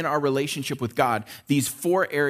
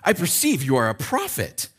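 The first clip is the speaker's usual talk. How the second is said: sarcastic. Acted. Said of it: "this is probably top of the list".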